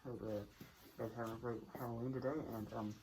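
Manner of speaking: speaking through a costume mask; muffled voice behind a mask. Real, not acted. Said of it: "my voice is muffled 'cause of the mask".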